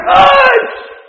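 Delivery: high, loud hushing shout; sharp rebuke. Acted. Crowd rebuking the blind man to hush, sharp loud shout. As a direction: silence the beggar sharply.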